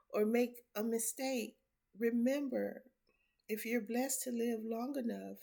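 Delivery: firm preaching; emphatic preaching. Real, not acted. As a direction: drive the point home. Preaching point to viewers.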